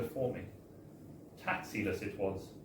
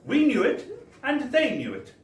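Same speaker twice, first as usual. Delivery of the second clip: mock clerk voice; 10 semitones higher, 5 dB louder than usual. Clerk's retold scolding continues.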